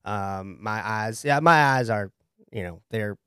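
easygoing Southern client; relaxed Southern talk; Southern accent. Acted. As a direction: chat modestly in a Southern accent. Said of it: "you're from the South".

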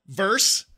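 "verse" cut to one syllable with a scornful rise; clipped verse. Shown as a demonstration. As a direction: sneer the short "verse".

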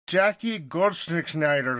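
drawn out slowly, syllable by syllable; carefully sounding out a hard name. Shown as a demonstration. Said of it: "That's such a hard name to say".

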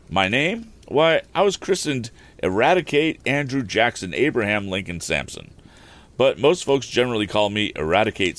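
a rustic carter explaining himself, lightly put on; rambling wagon driver.

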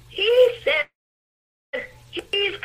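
whisper. Acted. Whispered aside in sermon.

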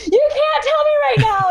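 very high, laughing and close to tears; laughing protest. Retold or imitated. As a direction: beg him to stop with a teary laugh. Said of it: "I'm like".

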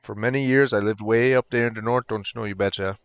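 put-on Yooper accent, folksy northern phrasing. Shown as a demonstration. Podcaster proving he could have an accent, mock Yooper accent. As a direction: lay on an Upper Midwest Yooper accent. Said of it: "I could have an accent".

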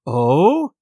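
a sneering blind man. A narrator's reading. Blind man to the boy who dares not, sneering. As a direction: sneer at the refusal. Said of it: "he sneered".

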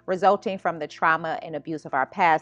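slow, deliberate host intro over music; slow podcast welcome read. Acted. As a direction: welcome listeners in unhurried, measured, announcer-like.

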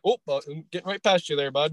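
put-on light Canadian-ish Michigan accent, friendly. Michigander mimics locals squeezing past, in a light Canadian-ish accent. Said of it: "Canadian-ish accent".

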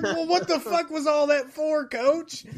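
high, laughing disbelief at the coach; exasperated. Retold or imitated. Billy mocking the coach for letting James off, high and incredulous. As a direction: throw it back at him, incredulous. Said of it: "And I'm like".

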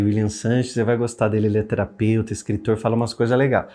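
normal talking voice

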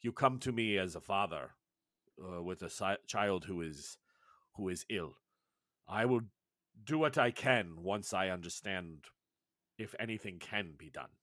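lightly voiced tribal elder, solemn; grave elder Sectu. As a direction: speak like a wise old healer, unhurried.

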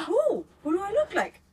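high, loud eager asking; eager demand. Retold or imitated. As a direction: demand to know, pitch jumping up.

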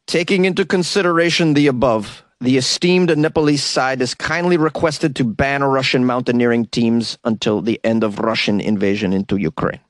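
a faint attempt at a Ukrainian accent reading the letter; lightly put-on Ukrainian accent, formal and polite. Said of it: "That was my attempt at a Ukrainian accent".

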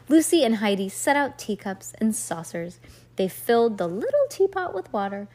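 measured, expressive story reading; storybook read-aloud. A narrator's reading. Reader tells a child about two girls dressing up, storybook read-aloud.

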